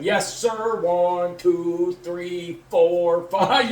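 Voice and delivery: deliberate counting, word by word; acted sobriety-test count. Driver performing for the cop, mock careful counting. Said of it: "I'm sitting there going".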